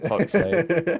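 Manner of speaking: high mock exasperation; a frustrated bandmate rolling their eyes; mock fed-up groan; annoyed muttering.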